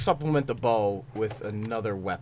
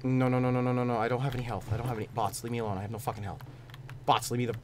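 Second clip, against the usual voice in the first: soft, sinking despair; defeated mutter; 2 semitones lower, 8 dB quieter, faster than usual. Real, not acted. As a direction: mumble it as hope drains. Dying, no health.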